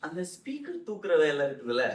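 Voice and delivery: imitating relatives. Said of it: "So they are introducing me saying".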